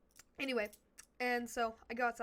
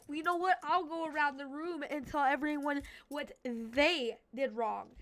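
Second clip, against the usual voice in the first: a teacher threatening to call everyone out, voiced raised and louder; mock teacher threat; 3 semitones higher, 5 dB louder than usual. Teacher threatening the whole class, in a mock loud scold.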